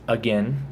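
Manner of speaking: "Again" said as uh-GEN; second A dropped. Shown as a demonstration. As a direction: rhyme the end of "Again" with "ten". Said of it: "as if the other A doesn't exist".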